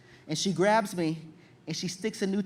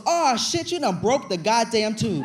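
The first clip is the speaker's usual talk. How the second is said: mock angry nurse; 3 semitones higher, 4 dB louder than usual. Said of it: "the nurse goes".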